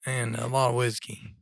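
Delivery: hoarse, raspy throat. Real, not acted. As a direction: talk through a raspy sore throat. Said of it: "his voice is a little raspy".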